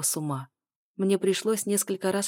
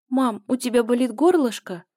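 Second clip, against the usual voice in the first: put-on higher, childlike and worried; a small daughter's concerned ask, higher; little girl voice; 6 semitones higher, 7 dB louder than usual. A narrator's reading. Daughter asks her mother, worried and childlike, higher.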